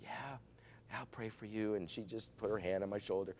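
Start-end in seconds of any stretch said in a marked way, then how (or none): 0.0-1.7 softly imitating a quiet woman; soft-spoken. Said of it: "she was real soft-spoken".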